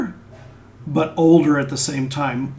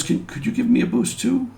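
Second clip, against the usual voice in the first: Rotha asking; 7 semitones higher, 4 dB quieter than usual. Retold or imitated. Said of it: "Rotha goes".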